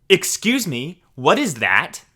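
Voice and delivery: mock a Ned's Scottish accent asking something dumb; a hint of a Glasgow Ned accent; bad Scottish Ned accent. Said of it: "in the worst Ned or idiotic accent imaginable".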